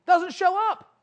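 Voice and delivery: insistent, punched-up statement; emphatic repeat. Real, not acted. Repeats the no-show for effect.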